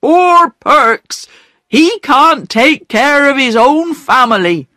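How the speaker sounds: a proud man ashamed, lightly voiced; hurt pride. Perks explains to the children, mildly tearful.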